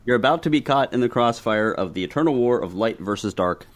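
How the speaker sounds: horror trailer voice. Shown as a demonstration. Reading the map's dramatic backstory.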